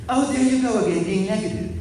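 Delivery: a hint of a weary scold; mock tut-tut; old sister. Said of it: "she replies to his newspaper".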